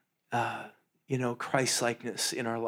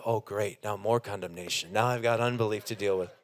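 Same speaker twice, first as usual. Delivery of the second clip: quick sarcastic complaint, mimicking the listener; mock sarcastic groan; 3 semitones lower than usual. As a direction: rattle it off in mock exasperation. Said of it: "you go".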